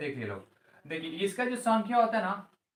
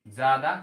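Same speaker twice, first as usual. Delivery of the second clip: ज्यादा punched louder; stress on ज्यादा; 4 semitones lower, 6 dB louder than usual. Shown as a demonstration. Teacher stressing to class, ज्यादा punched loud. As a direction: hit ज्यादा hard. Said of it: "ज्यादा समय".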